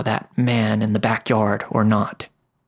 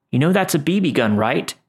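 higher, quick teasing question; teasing teenage cousin; 5 semitones higher than usual. Acted. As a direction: poke fun at the fake rifle. Cousin mocking their BB gun.

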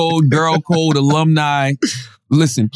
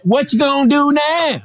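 put-on lazy Southern hillbilly accent delivery; 6 semitones higher than usual. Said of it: "how do hillbillies say it".

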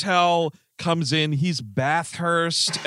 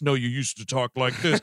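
put-on lightly altered accented voice; second inner voice; 3 semitones lower than usual. Past life arguing inside his brain, second voice. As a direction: correct him in a slightly different voice.

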